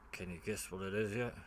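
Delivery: put-on low, soft, half-hearted Australian accent; Australian accent attempt. Joking to viewers about his build, half-hearted Australian accent. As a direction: try a mild Australian accent, badly. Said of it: "can't do Australian accents".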